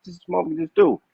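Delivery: high, fast, incredulous blurt; mock stunned disbelief. Hero staring at the burning car, mock stunned. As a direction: imitate a bystander who can't believe his eyes. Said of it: "looking at the car like".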